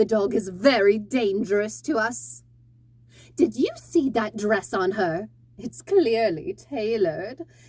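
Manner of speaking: arrogant, haughty, high-pitched tone. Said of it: "middle, high-pitched voice, arrogant".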